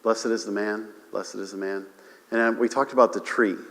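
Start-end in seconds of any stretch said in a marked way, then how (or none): 0.0-1.9 quoting psalm. Retold or imitated. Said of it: "it says".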